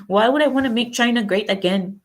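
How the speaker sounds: attempted Chinese accent. Mimicking a Chinese objector to the slogan, attempted Chinese accent. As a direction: try on a rough Chinese accent. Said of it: "I shouldn't try to do accents".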